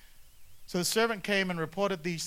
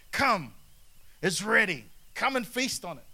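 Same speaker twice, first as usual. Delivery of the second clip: inviting call; 3 semitones higher, 5 dB louder than usual. Acted. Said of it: "he says to us today".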